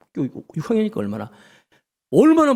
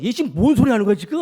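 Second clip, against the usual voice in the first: slightly raised, incredulous retort; mock shocked disciples; 4 semitones higher, faster than usual. Disciples astonished at Peter's request, lightly acted disbelief. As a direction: act lightly dumbfounded at a companion's request. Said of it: "기절하는 줄 알았을 거예요".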